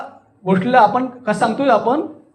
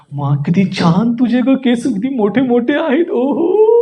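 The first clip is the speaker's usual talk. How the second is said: affectionate gushing, rising at the end; loving admiration; 2 semitones higher than usual. Shown as a demonstration. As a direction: coo admiringly, lifting into the final "ओहो". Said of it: "प्रेमानं सांगायचंय, बोलायचंय".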